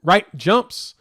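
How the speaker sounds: stumbling over the words with restarts; real halting, tongue-tied slip. Real, not acted. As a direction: trip up and grope for the phrase. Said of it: "I'm all tongue-tied".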